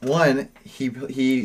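talking while hitting desk; thumping the desk mid-sentence; banging the desk. Real, not acted. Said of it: "Stop hitting the desk".

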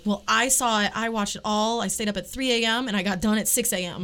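smug, bragging internet tone; snooty internet voice. Retold or imitated. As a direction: brag like you outpaced everyone. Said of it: "My, my snooty internet voice".

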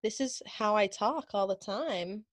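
put-on soft Valley girl American accent, rising at the end. The speaker jokes this is how she talks, in Valley girl American. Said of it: "the Valley girl".

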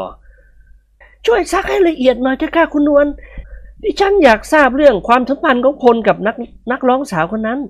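high, slow woman's voice, a touch of jealousy; jealous wife. Acted. Jealous wife asking her friend to question the machine, slow high voice. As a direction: ask slowly, suspicious. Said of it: "มองดูพลอย่างหึงหวง".

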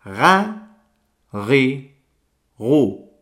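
Ga, ri, ru with a throaty ghain, each syllable slow and apart; ga ri ru with a gargled R; ghain sounds. Shown as a demonstration. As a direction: demo the ghain syllables one by one. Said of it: "Repito por última vez".

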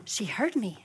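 whispered in wonder; mock child whisper. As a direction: whisper it amazed. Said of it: "they're like".

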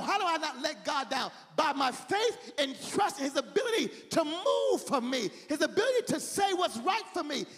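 impassioned sermon delivery; fervent preaching. Acted. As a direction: preach it with rising fervor. Preaches at full force.

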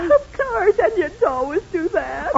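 tearful, matter-of-fact reply; crying from onions. Acted. Wife explains her onion tears to her husband, tearful. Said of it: "that's what's making you cry".

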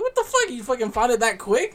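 mock-stunned high voice; incredulous. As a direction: squeal it like you can't believe it. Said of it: "I'm like".

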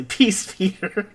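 high, slow put-on exclamation; imitated dub line. English dub hero striking a victory pose, mock exclaiming. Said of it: "make him say".

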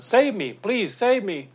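loud, high acted call for rescue; mock desperate cry for help. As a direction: plead as the drowning swimmer. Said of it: "he cries out".

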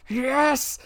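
high, loud rallying cry, near screaming; excited battle shout. Retold or imitated. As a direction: roar it like a charge into battle. Cheering the Riders of Rohan.

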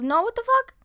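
high, loud Long Island indignation; Long Island mother. Retold or imitated. Mother answering callers who guess Brooklyn, imitated loud Long Island outrage. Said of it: "the most Long Island accent".

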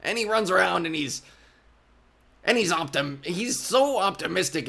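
lightly voiced plucky little halfling; a hint of a brave little gnome, chirpy; throat-straining small hero voice. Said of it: "and he talks like this".

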